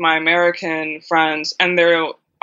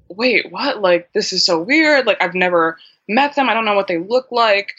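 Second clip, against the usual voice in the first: surprised; 3 semitones higher than usual. Retold or imitated. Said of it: "quite a surprise for me".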